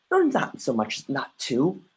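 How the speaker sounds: usual speaking voice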